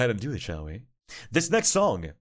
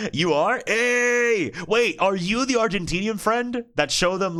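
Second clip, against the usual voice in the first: light up at a familiar name; surprised excitement; 9 semitones higher, slower than usual. Real, not acted. Streamer recognizing the Argentinian friend in chat, surprised and high.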